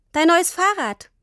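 put-on high, bright-eyed girl offering a gift; proudly presenting the bike; beaming child. A narrator's reading. Tini presents the new bike to Papa, beaming. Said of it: "sagte Tini strahlend".

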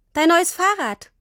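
put-on a girl showing off her surprise gift; beaming, proud announcement. A narrator's reading. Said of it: "sagte Tini strahlend".

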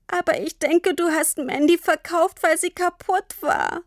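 barely getting words out through tears; sobbing. A narrator's reading. Tini sobs to Papa about Mandy. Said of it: "vor Schluchzen kaum sprechen".

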